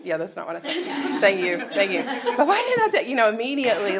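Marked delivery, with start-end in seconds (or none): 2.4-4.0 loud, high mock wail of self-blame; exaggerated self-reproach, pitched way up; frustrated outburst. Speaker replays kicking herself over her dad, hammed-up frustration.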